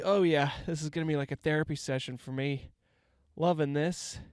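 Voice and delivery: stuffy, congested voice; stuffy nose. Real, not acted. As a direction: talk through a blocked nose. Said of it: "hear in my voice that I'm a little stuffy".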